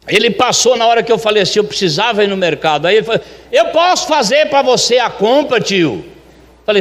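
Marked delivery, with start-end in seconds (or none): 3.5-6.0 higher-pitched imitation of an eager helper. Luiz offers to shop for the restaurant owner, eager and higher-pitched.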